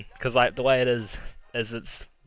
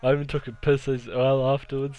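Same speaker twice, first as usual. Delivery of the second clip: proud boasting; 2 semitones higher, 5 dB louder than usual. Retold or imitated. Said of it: "He was so proud".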